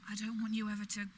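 firm, loud and angry. Acted. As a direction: shut him down hard. Ending a stalker's advances.

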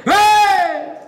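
long, high, loud happy "¡eh!"; drawn-out joyful shout of greeting; saludo contento. Acted. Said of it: "cuando se está contento el saludo es largo". (saludo contento, largo y gritado)

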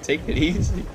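lightly voiced old man. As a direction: say it like a weary grandpa. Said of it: "You sound like an old man".

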